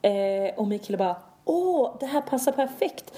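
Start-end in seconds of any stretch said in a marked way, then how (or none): 1.4-3.1 high, drawn-out gleeful "oh"; delighted exclamation. Retold or imitated. Boyfriend jumps in on the coffee talk, mock delight. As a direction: pipe up as the delighted boyfriend, imitating.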